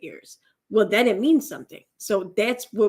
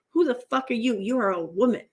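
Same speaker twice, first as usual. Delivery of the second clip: quick mock question settling into usual pitch; imitated belittling put-down; 3 semitones higher, faster than usual. Commentator shows how degrading she sounds, quick mocking put-down. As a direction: mimic her dismissiveness with a light, rushed delivery. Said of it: "that's how it sounds".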